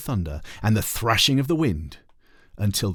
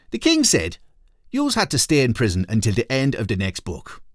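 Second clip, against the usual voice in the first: lightly voiced, higher passerby; passerby refusing the badgers, a touch higher; higher-voiced Blimey O'Reilly; 3 semitones higher, 4 dB louder than usual. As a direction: raise the voice for the other character.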